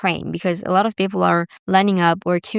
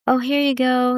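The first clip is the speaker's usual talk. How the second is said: higher-pitched imitation of a kind waiter; extra friendly; 5 semitones higher than usual. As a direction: hand it over with added friendliness. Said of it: "extra friendly".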